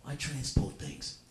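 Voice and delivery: slow, laughing mock action hero line; hammed-up tough guy reading his own title; Jason Statham. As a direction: drag it out like a self-serious hero, breaking up. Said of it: "He's like".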